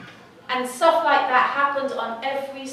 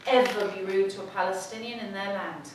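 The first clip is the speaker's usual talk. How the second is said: inner voice; 2 semitones lower, 5 dB quieter than usual. Retold or imitated. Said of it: "a voice in my head".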